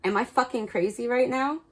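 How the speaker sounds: imitating the viewer freaking out that they have lost it; mock panic. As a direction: play the frantic self-doubter, half joking. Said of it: "you've been like".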